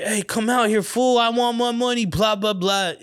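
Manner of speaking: high-pitched retold challenge; imitated trash talk trailing into filler; mock mean talk. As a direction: act out a kid talking tough outside a house. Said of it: "trying to say the mean shit".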